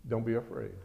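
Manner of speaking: quiet, steady prophet; calm the frightened servant; calm reassurance. Acted. Prophet calmly reassuring his terrified servant, quiet and steady. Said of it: "the prophet answered".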